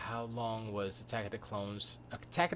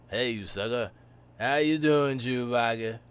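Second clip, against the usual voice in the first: louder, smooth hey; Lando greeting; 7 dB louder than usual. Retold or imitated. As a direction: call out to Chewie with swagger. Lando greeting Chewbacca, loud.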